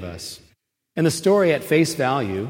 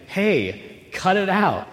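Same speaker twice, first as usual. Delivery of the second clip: raised, irritated shushing, higher and a bit faster; annoyed hush; 6 semitones higher, 4 dB louder than usual. Acted. Crowd member scolding the blind man, raised and irritated. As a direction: tell him to cut it out so you can hear.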